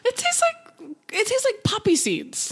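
giggling through the words; laughing while complaining; cracking up mid-line. Real, not acted. Laughing through disgust at seasoning.

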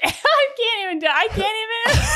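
high, bursting into laughter; can't get words out for laughing; trying not to laugh. Real, not acted. Cracking up at friend.

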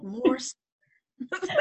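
very slow, drawn-out answer; mock insistent reply. Director confirms the request to his actress, mock insistent. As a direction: stretch it out as a firm confirmation. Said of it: "He's like".

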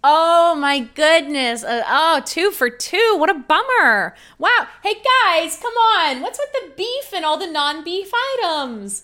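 overdone shocked cashier; surprised. Acted. Cashier feigns dismay.

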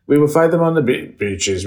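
a hint of wartime Churchill, sinking at the end; Churchill impression. Quoting his famous speech to the guests, a light Churchill drop. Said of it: "he takes it right down at places".

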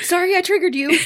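laughing. Real, not acted. Teasing apology through laughter.

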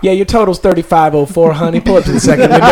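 cheery drive-thru cashier voice; drive thru speaker. Pretend. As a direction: play the fentanyl window clerk.

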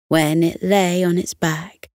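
soothing read-aloud voice; bedtime story narration. A narrator's reading. Bedtime story narration over music.

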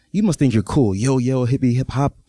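a lady lightly imitating hip hop slang, mocking. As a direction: sneer it out like a bad hip hop impression. Woman mocking his hip hop style.

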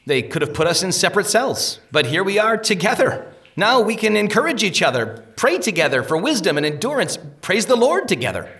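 high, bright-hearted hope; Faithful cheers Christian up about sharing the cell, pitched high; cheerful encouragement. Acted. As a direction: lift his friend's spirits.

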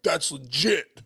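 lightly mocking catchphrase impression; mocking imitation. Host imitates people mocking his favorite word, lightly mocking. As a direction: imitate someone teasing you over a pet word. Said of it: "when people mock me sometimes".

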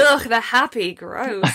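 playfully disgusted groan on "Ugh"; mock disgust. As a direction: put on exaggerated revulsion for a joke. Mock disgust at happy posters.

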